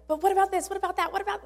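high, rising worried questions; anxious objections. Retold or imitated. Claire arguing back at God, high and anxious. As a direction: pile up the objections in a rush of doubt. Doubting objections to God's call.

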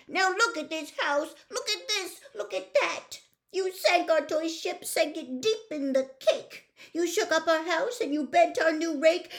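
high, loud, fussy fish; upset fish voice. Acted. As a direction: play a panicky little fish, loud and high. Fish scolding cat.

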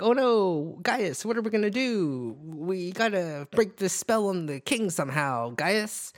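Rick and Morty voice. Retold or imitated. Merlin to Gaius, in a light Rick and Morty style. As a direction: squeal it like a cartoon sidekick. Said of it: "Why are you talking like this is Rick and Morty".

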